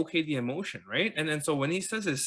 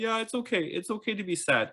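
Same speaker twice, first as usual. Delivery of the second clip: soothing parent; 8 semitones higher than usual. Retold or imitated. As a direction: gently comfort a crying child in your arms. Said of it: "He started reassuring himself".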